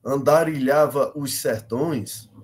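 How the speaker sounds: slow, evenly paced verse, each syllable given its beat; measured declamation. Shown as a demonstration. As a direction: declaim the line neatly in time, syllable by syllable. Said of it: "compassando bem direitinho, né, cada sílaba". (declamando compassado, sílaba por sílaba)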